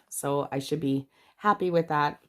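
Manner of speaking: stuffy blocked-nose voice; talking through a head cold; congested. Real, not acted. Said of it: "excuse me if I sound really congested today".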